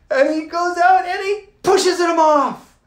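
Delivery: high loud laugh through the words. Real, not acted. Teller laughing at the coach pushing him off. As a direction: laugh it out in disbelief.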